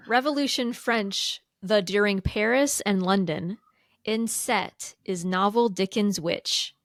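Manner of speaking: slow, word by word reversed; backwards speech. Shown as a demonstration. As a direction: read the words in reverse order, slowly. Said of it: "read the question backwards".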